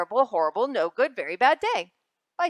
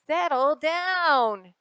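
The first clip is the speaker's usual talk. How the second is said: stern mother; 6 semitones higher, 5 dB louder, much slower than usual. Acted. Mother scolding in story.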